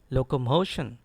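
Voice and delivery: locomotion with MO stressed and falling after; correct stress. Shown as a demonstration. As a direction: lean on MO in locomotion. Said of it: "It is actually locomotion".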